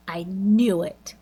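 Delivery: slow unvoiced whisper, half to herself; hushed whisper. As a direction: breathe it out as a knowing whisper. Karen reacting, hushed aside.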